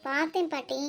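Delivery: soft reply with a laugh. Acted. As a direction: laugh as you answer. Laughs answering grandma. (சிரித்தபடி பதில்)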